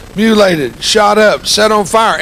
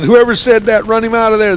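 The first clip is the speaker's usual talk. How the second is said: higher, louder mock caller demand; imitated outraged caller; 7 semitones higher, 5 dB louder than usual. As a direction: lightly act an indignant phone-in complaint.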